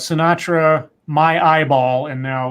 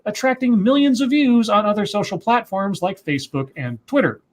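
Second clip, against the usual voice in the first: measured, emphatic article reading; reading a news report aloud; 2 semitones higher than usual. Acted. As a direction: read it out like a news story, key words punched. Reads a news story aloud.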